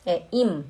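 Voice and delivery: im with a closed m at the end, lips together; right im. Shown as a demonstration. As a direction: model im for students. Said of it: "Não é in".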